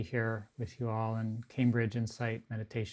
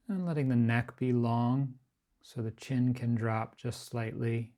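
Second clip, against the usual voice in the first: unhurried, evenly pitched body-scan guidance, phrase by phrase; guided meditation. Acted. Teacher guiding a group to relax the body, guided meditation.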